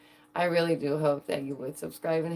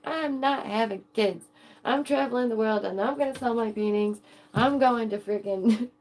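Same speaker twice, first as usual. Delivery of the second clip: higher-pitched, stretched-out declarations; emphatic past self; 5 semitones higher than usual. Retold or imitated. Streamer imitating her younger self swearing off kids, emphatic. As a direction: play up the old self's firm vows. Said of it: "being that person that was like".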